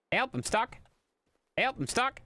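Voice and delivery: high, strained call for help; high hammed-up plea; mock cry for help. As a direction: wail it theatrically.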